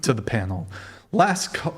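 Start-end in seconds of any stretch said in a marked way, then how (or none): 1.1-1.7 voice crack. Real, not acted. Host calls time on the show, real voice crack. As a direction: voice cracking upward mid-call. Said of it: "Voice crack".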